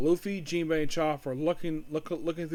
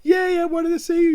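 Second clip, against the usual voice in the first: higher, louder blubbering voice; hammed-up tearful reunion wail; mock crying; 10 dB louder than usual. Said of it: "He's, like, crying".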